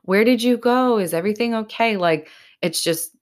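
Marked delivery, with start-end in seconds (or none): 0.0-2.0 higher, concerned asking voice; lightly voiced worried friend; worried listener. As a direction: mimic a caring fan checking in. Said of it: "reaching out and being like".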